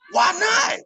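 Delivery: a high shouted plea; high-pitched insistent yell; shouted why not. Real, not acted. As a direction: shout it to push him. Pushing friend to take the deal.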